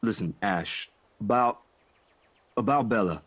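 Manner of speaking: halting, hesitant lead-in with pauses; tentative and broken off; trailing off. Acted. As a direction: let the name trail away unfinished. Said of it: "I let my voice trail off".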